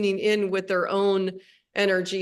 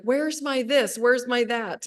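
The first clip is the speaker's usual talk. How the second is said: lightly mimicked child, higher sing-out; a hint of kids calling for mom's help; imitating kids asking; 4 semitones higher than usual. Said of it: "my kids are always like".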